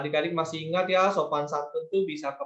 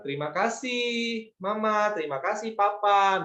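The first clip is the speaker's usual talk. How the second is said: 1 polite thanks to parents; 3 semitones higher than usual. Shown as a demonstration. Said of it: "misalnya seperti itu".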